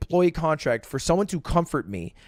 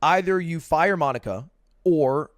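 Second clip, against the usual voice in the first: put-on girlfriend's ultimatum; 7 semitones lower than usual. Girlfriend's ultimatum voiced in story.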